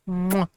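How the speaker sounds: loud smacking air kiss; kiss sound. Real, not acted. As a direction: blow a big loud kiss. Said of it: "Here's a little kiss".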